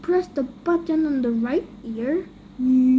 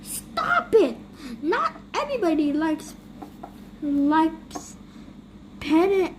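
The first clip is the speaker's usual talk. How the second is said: laughing protest. Acted. Being petted and slapped.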